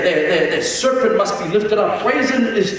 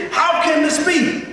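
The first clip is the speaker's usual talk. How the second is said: puzzled question; 7 semitones higher than usual. Retold or imitated. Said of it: "the man turns around and he says".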